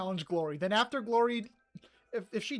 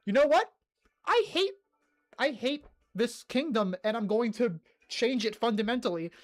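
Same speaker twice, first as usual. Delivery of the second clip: mock fed-up queen; 3 semitones higher than usual. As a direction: ham up a queen who's had enough of her kingdom. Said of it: "Jacaranda decided".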